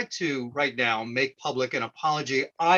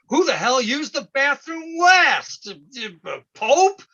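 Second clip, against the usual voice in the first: raised, exasperated questioning; irritated housemate's accusation; mock indignant demand; 11 semitones higher, 5 dB louder than usual. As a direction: demand to know who did it, mildly hammed up. Acted bathroom accusation of housemate.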